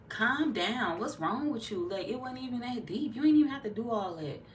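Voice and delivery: high, exasperated onlooker; mock chiding. Onlookers judging an angry Virgo, mock-exasperated chiding. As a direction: imitate someone telling a hothead to settle down.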